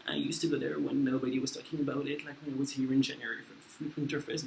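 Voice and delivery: a hint of a know-it-all hipster; smug hipster voice. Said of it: "be like a hipster and be like".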